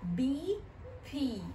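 بي then بي, the B said voiced, no air; b vs p sound. Shown as a demonstration. Teacher shows B against P for kids. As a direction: contrast بي with the airy P. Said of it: "الفرق ما بين ال B وال P".

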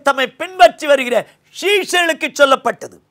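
ordinary talk

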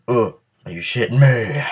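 loud gamer frustration; loud disbelief. Real, not acted. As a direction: throw it at the screen in disbelief. Frustrated at game failing.

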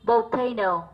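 volcano, sounding out the O. Shown as a demonstration. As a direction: say volcano with a clear O in the first syllable. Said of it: "tiếp tục là âm O". (đọc volcano rõ âm O)

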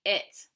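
"it" with a short, unstressed vowel sound; short "it" as a word ending; schwa ending. Shown as a demonstration. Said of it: "sometimes they sound a little bit like".

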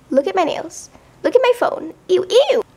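high loud mocking brag; mock bragging girl. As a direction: mimic the show-off.

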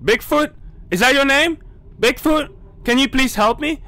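high, anxious questions; nervous high pleading. Real, not acted. Gamer nervously asking Bigfoot for help, high anxious plea. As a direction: beg the monster nervously.

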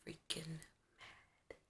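soft, slow, annoyed whisper. Real, not acted. Vlogger muttering about oil-soaked bed, soft slow whisper. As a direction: breathe it out under your breath, annoyed.

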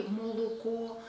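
молоко as "mo-lo-ko", o unreduced; dialect full o. Shown as a demonstration. Teacher citing dialects, молоко with full o's. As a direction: keep every o round in молоко. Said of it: "some dialects in Russia".

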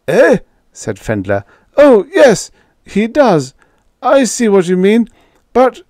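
put-on high, loud flustered old man; sputter, caught off guard; flustered boss. A narrator's reading.

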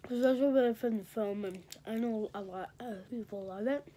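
talking while chewing; mouth full. Real, not acted. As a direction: talk through a mouthful. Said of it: "I'm talking with my mouth full".

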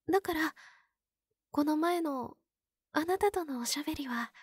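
bashful whisper. Acted. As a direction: drop to a shy whisper. Shy memory of their chat.

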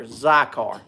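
Zycar said "ZAI-kar", stress on the first syllable; pronunciation demo. Shown as a demonstration. Telling Jeff how the brand name is said, Zycar. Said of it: "is how it's pronounced".

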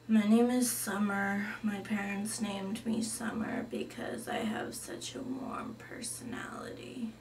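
deadpan whispered goth; a goth girl whispering dryly. Acted. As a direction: breathe it out, flat and gloomy. Goth Summer introduces herself.

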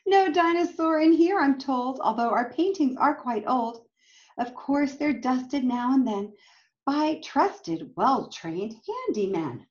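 put-on lively storybook read-aloud for kids; reading to children. A narrator's reading. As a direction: read it like a picture book to a class. Reading picture book aloud.

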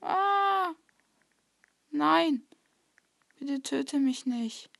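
high pleading cry; panicked pleading. Real, not acted. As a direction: beg in panic. Caught by Slenderman.

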